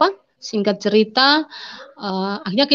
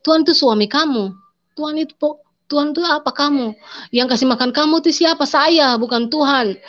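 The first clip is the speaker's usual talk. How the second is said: husband scolding his wife, raised and angry; 5 semitones higher than usual. Retold or imitated. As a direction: retell the husband's furious rebuke, raised. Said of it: "Nah, dia marah".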